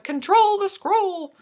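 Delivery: high, drawn-out mock command; exasperated plea. Real, not acted. Host scolds the jumping chat scroll, exasperated. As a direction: plead slowly, way up in pitch.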